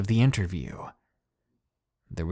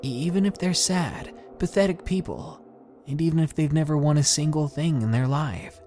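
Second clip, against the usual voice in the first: higher, tearful plea through tears; crying; 6 semitones higher than usual. Acted. Girl pleading to her teacher, tearful and high. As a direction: push the words out while crying. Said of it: "then commenced crying".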